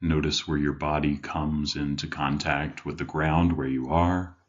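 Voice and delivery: measured meditation guide with long pauses; guided meditation. Acted. Life coach leading listeners to settle in, guided meditation. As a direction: guide them gently inward, leaving room between phrases.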